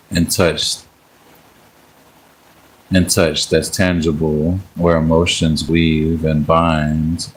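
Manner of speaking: slow, measured poem recital; poetry reading. Acted. Streamer reading a love poem to live viewers, measured recital. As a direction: recite it line by line, unhurried, with pauses between phrases.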